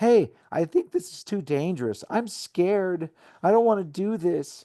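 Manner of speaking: high-pitched, put-on whiny voice. Yelling back to Dad from atop a wall, in a fake whiny voice. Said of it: "I yell back in a fake whiny voice".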